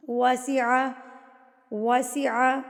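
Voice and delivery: وسع starting with rounded-lip "w"; rounded waw. Shown as a demonstration. Teaching waw, وسع with rounded "w". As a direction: round the lips firmly into وسع. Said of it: "ہونٹوں کی گلائی سے".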